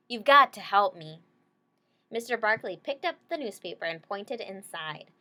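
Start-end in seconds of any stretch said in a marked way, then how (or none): 0.1-1.2 louder, urgent plea. Acted. Girl pleading with her dog, loud and urgent. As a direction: beg for help.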